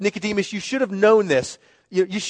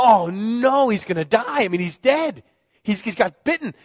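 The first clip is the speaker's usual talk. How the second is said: panicked parent; 4 semitones higher than usual. Retold or imitated. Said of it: "And you go".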